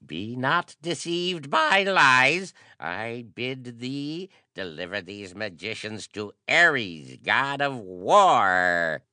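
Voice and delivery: high, stormy priestly command; storming. A narrator's reading. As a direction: thunder the demand at them. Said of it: "Heracles stormed on".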